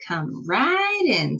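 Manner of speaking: slow, drawn-out sly welcome; sly witch invite. Acted. The witch slowly lures Sasha inside, sly. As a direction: lure her in slowly.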